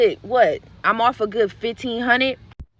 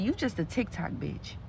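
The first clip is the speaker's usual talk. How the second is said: quiet sneer; 13 dB quieter than usual. Retold or imitated. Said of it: "This girl said".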